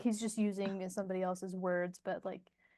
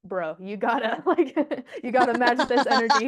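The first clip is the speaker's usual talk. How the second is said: excited coaching; 8 dB louder than usual. Retold or imitated. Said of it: "they're all like".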